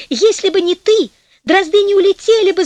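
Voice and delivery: громкий высокий крик мужа; обвиняй в ответ, повысив голос; сердито закричал. A narrator's reading. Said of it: "закричал муж". (сердитый крик)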